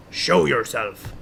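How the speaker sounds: slow, theatrical challenge; mock command. Host playfully echoing the choice to step out, mock command. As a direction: intone it slowly like a challenge.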